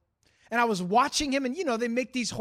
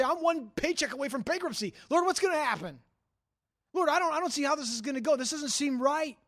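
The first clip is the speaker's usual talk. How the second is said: higher-pitched imitated worry; worried plea; 3 semitones higher than usual. Preacher voices a listener telling the Lord of trouble, worried plea. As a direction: appeal upward to the Lord, unsettled. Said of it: "Maybe you say".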